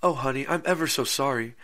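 a hint of a fretful housewife; imitating the wife. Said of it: "she goes".

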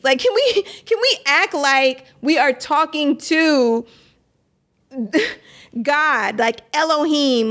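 earnest, worked-up plea, pitch lifting. Real, not acted. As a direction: plead for seriousness with exasperated little laughs. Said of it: "I'm so worked up about this".

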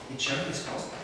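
a soft echo of "e c'è una risposta"; quiet echo. Shown as a demonstration. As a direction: murmur "e c'è una risposta" back to yourself.

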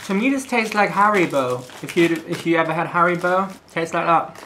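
sucking a candy; slightly muffled by sweet; talking with sweet in mouth. Real, not acted. Seen 1: Man put sweet in mouth at -5; cheek slightly bulged while talking.

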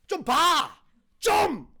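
loud, high Gyeongsang-style demand; exasperated emphasis. Shown as a demonstration. Preacher showing a Gyeongsang emphatic, exasperated shout. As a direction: shout it to make them look right now. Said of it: "우리 경상도 말로 하는 강조표".

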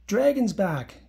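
little bug yelling with delight; joyful yell. A narrator's reading. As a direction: shout the good news to everyone. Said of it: "yelled Bounce".

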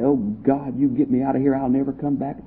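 softly acted plea to God; understated fearful bargaining, kept quiet; frightened prayer. Someone afraid at night promising God, softly acted prayer. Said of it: "really afraid some night and say".

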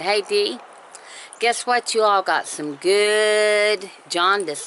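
high, bright, eager "guess what"; excited greeting to the manager. Retold or imitated. Telling the store manager the news, excited and teasing. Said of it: "I said".

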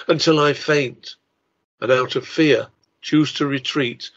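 solemn, declaiming reading of a translated Welsh ode to the sea; measured dramatic poetry reading; poem recitation. Shown as a demonstration. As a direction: recite it like a grave bardic poem, savouring each image. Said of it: "I will recite it for you".

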